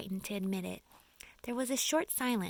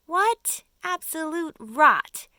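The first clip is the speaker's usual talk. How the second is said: shaky bravado; 7 semitones higher, 10 dB louder, slower than usual. Acted. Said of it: "his voice seemed suddenly to have become a little shaky".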